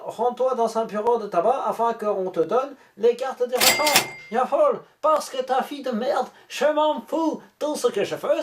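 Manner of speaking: put-on lightly done German accent reading the message; mild mock German accent. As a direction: read the scammer's text in a hint of German accent. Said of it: "je vais prendre l'accent de l'allemand".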